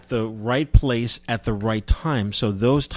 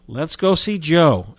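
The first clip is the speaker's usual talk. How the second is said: 1 Sam Sherman; 6 semitones higher, 6 dB louder, slower than usual. Retold or imitated. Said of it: "as Sam would say".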